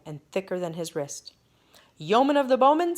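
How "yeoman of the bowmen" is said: royal summons. Acted. King summons archer.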